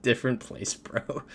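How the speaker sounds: mock-curt dismissal with amusement; curt, amused retelling. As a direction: replay your curt reply, tickled by it. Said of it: "just very curt with my response".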